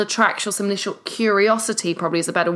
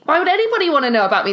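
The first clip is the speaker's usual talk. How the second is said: anxious inner voice; 7 semitones higher, 3 dB louder, much faster than usual. Retold or imitated. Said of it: "This is what your internal voice is saying".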